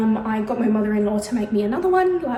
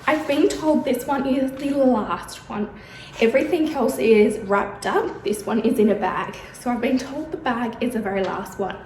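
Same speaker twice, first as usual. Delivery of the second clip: out of breath. Real, not acted. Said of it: "If it sounds like I'm out of breath".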